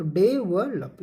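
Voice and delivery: "डेवलप" slowly broken into day-vul-up; syllable demonstration. Shown as a demonstration. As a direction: draw out "डेवलप" part by part, schwa in "vul". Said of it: "अब यहाँ पे वल होगा". ("डेवलप" को धीरे-धीरे डे-वल-अप तोड़कर बोलें)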